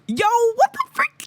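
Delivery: high, loud, flustered outburst. Real, not acted. Fan recalls eye contact with her idol, high flustered blurt. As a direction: blurt it out, thrown by the stare.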